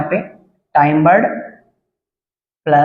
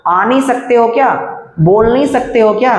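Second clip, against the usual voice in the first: higher, sharp impatient demand; snappy, higher-pitched needling; abrupt jab; 6 semitones higher than usual. Shown as a demonstration. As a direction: fire the questions off with a jolt. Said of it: "और फिर झटके से बोलते हैं".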